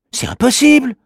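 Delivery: put-on high child voice, dismissive; doubtful little boy. Manu telling his sister it can't be, dismissive boy voice. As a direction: brush it off as nonsense. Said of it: "répond Manu".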